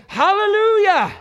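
high, slow ringing shout of praise; full-voiced preacher's cry; shouted hallelujah. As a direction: lift it to the rafters. Voicing the heavenly crowd.

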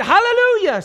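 full-voiced preacher's cry; shouted hallelujah. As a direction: lift it to the rafters. Voicing the heavenly crowd.

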